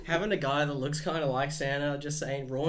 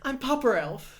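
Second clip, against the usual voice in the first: slow, high, loud elf voice; 7 semitones higher, 4 dB louder than usual. Pretend. Playing Papa Elf.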